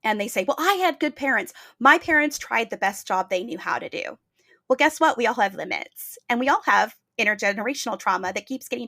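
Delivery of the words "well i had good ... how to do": mildly defensive retort, pitched up at the start. Retold or imitated. People hearing about developmental trauma, mildly defensive. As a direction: imitate someone justifying their parents. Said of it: "people that get super defensive".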